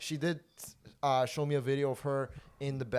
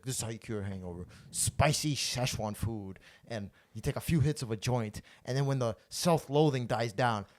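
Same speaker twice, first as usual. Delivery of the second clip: lightly voiced Anthony Bourdain. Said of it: "that Anthony Bourdain thing".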